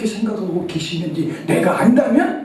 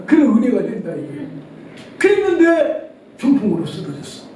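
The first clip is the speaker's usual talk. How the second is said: ordinary talk, nothing marked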